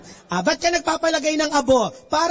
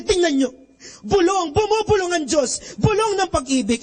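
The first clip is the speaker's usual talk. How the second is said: passion play announcer; 5 semitones higher than usual. Retold or imitated. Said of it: "Sabi nung announcer".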